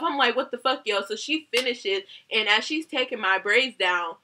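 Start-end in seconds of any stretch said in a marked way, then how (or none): 0.3-1.0 retold pissed off. Client reacting to chunks of hair, mild retold annoyance. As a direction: replay your irritation with a lift in pitch. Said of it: "I was getting pissed off".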